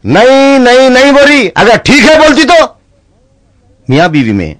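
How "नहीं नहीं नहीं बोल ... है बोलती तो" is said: high teasing friend. Acted.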